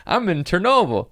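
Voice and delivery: high put-on kid voice; little Chernobyl kid. Chernobyl kid announcing where he is, high silly voice. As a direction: chirp it high like a cartoon child. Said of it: "That's how they sound in Chernobyl".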